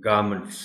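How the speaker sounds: garments as GAR-munts; reduced MUNT ending. Shown as a demonstration. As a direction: say garments with schwa in last syllable. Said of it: "Similarly, it's".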